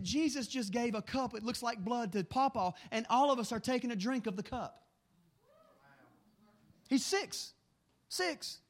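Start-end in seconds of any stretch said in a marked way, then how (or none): 0.0-4.9 son's awed words. Retold or imitated. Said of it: "He said".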